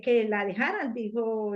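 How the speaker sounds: ordinary delivery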